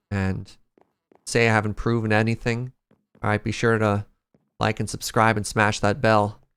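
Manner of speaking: upbeat clickbait intro voice; YouTuber voice. Pretend. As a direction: hype it like a YouTuber. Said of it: "nail that YouTuber voice as well".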